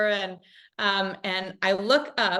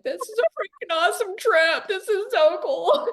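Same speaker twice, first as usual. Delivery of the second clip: higher, giddy retelling of her thrill; retold excitement; 10 semitones higher than usual. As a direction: relive the awe, pitched up. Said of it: "I'm like".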